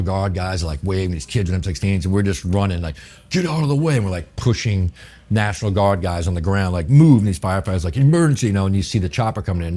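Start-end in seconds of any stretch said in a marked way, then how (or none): 3.3-4.0 higher-pitched call to clear the path; retold yell. Running past National Guard, yelling. 6.9-7.2 loud, high barked order; retold shout. Pushing guards aside, yelling. 8.0-8.5 higher, louder call to clear a path. Retold or imitated. Firefighters clearing way, calling out.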